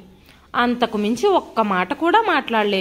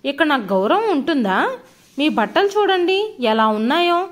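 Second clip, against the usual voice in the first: angry scolding; 3 semitones higher than usual. Acted. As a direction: scold the old father in shame and anger. Son scolds father angrily.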